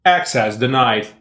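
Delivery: flat machine announcement; robotic voice. Acted. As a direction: read it like a security system. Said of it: "robotic voice say this".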